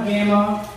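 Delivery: "grandma" with no R, like "gamma"; R left out. Real, not acted. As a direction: drop the R in "grandma". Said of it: "I leave the R out".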